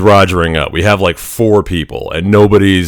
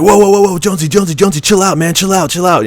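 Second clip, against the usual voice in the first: higher, hurried pleas to back off; urgent calming; 11 semitones higher, faster than usual. Retold or imitated. Platoon mates pulling Jonesy away from the instructor, urgent pleading. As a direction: hold a buddy back, half laughing, half urgent. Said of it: "Everybody was like".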